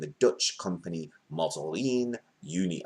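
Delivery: put-on a light French accent on Mazorine Uni. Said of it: "I did that in a French accent".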